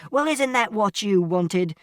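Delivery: angry shout. A narrator's reading. Father challenging mother, shouting accusingly. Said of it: "And Father shouted".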